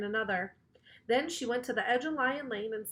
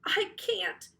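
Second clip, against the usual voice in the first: shouted back; 9 semitones higher than usual. A narrator's reading. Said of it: "Emily shouted back".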